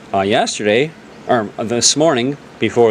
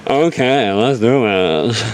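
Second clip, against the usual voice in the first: slow, drawn-out mock girly line; lightly put-on girly voice, dragging the words; half-hearted girly voice; slower than usual. Game master asked for a more immersive voice, half-hearted girly drawl.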